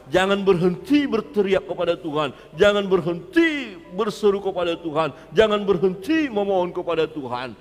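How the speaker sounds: loud, high-pitched exhortation, building through repeated pleas; full-force preaching. Real, not acted. Preacher urging congregation never to stop calling on God, fervent preaching. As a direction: preach it out urgently, crying up to God.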